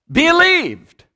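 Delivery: high, loud shouted climax; crying out the word; a loud climactic pulpit cry; preaching shout. Real, not acted.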